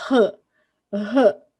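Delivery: R as a breathy, throaty H sound, "huh"; R voiced as the strong initial sound, like English H. Shown as a demonstration. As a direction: say the R as a short aspirated "huh", not the letter name. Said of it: "ela vai ter som de".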